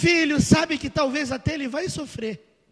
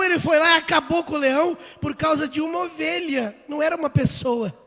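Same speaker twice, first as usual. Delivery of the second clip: ordinary talk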